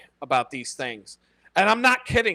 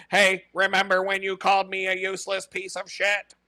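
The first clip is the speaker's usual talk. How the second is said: higher, level-pitched Terminator taunt; mock vengeful robot; 4 semitones higher than usual. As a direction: play a robot settling a score, jokingly. Voices vengeful AI Terminator, joking.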